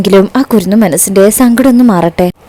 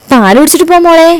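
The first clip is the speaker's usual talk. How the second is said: put-on mother's high-pitched call to her child; 8 semitones higher than usual. A narrator's reading. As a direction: call after the child, pitched high but not shouted. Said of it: "Shyama വിളിച്ചു പറയുമ്പോ". (ഉയർന്ന സ്വരത്തിൽ വിളിച്ചു പറയുന്നു)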